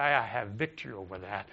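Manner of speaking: weak, low, unconvinced declaration; half-hearted. Shown as a demonstration. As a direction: say it limply, just going through the motions. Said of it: "I don't want you to just".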